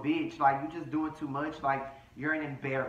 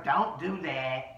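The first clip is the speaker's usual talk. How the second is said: stretched-out, deliberate admonishment; slow retold warning; slower than usual. He's telling her not to do that, slow mock warning. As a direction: retell it as a slow, spaced-out order.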